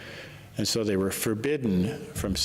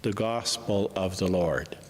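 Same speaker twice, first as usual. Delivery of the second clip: measured liturgical reading voice; gospel reading. Acted. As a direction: proclaim the scripture to the church.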